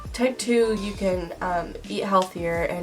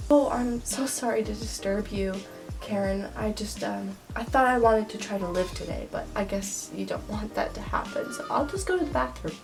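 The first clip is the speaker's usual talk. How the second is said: sarcastic; 4 dB quieter than usual. Acted. Sarcastic reply to Karen.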